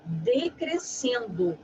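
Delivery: slow, drawn-out decrescendo. Shown as a demonstration. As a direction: stretch decrescendo out slowly. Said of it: "ele vem decrescendo".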